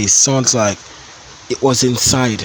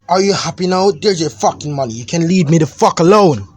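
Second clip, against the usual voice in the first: high, loud, spiteful; bitter teen outburst; 6 semitones higher, 5 dB louder than usual. Acted. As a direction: throw the words at him. Son flings money at dad.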